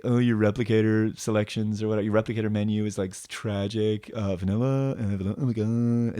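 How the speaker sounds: lightly mock a bored hipster judging a menu. Imitating the boyfriend dissing her replicator, mildly sniffy. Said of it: "Her boyfriend is just a hipster".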